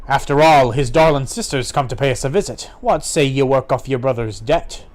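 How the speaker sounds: sly pirate making an offer; wily sea dog; lightly voiced pirate. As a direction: insinuate it with a hint of pirate.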